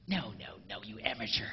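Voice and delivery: hushed mock scolding; whispered mock scold to the guys. Real, not acted. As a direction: tut at the amateur quietly. Scolding aside.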